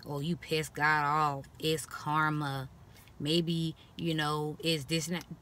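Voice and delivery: lightly mocking, slow sanctimonious voice; mock pious lecture. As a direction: drag it out like a smug know-it-all. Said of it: "I hate that quote".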